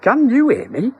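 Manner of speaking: husband calling to the mouse. Acted. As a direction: raise the voice to be heard.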